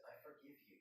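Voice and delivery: soft, understated tearful forgiveness. A narrator's reading. Emily forgives Sophia before the ultrasound, softly tearful. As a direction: say it softly, with a touch of tears. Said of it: "With tears in her eyes".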